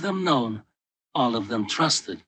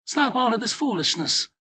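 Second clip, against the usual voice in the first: scolding wife; 8 semitones higher than usual. Acted. Wife Filomena voiced in story.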